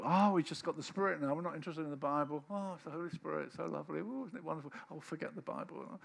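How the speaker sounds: lightly mocking swoon fading away; mock airy gushing. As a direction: parody the airy believer. Mocking airy spirit-only believers.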